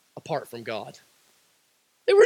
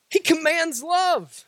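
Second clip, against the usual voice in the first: emphatic shout; 4 semitones higher, slower than usual. Acted. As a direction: cry it out to the congregation. Shouted repeat of same line.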